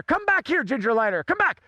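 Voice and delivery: high-pitched call after a runaway lighter. Pretend. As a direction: call it back in mock alarm.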